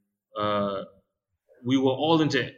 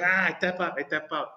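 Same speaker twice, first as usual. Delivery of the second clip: mock scream; 5 semitones higher than usual. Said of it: "He's just like".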